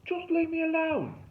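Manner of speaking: loud, very high-pitched wail; petulant fake Aussie. A narrator's reading. Derek rebuffs the kids from the tree, petulant holler. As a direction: shoo them away in a hammed-up Australian voice.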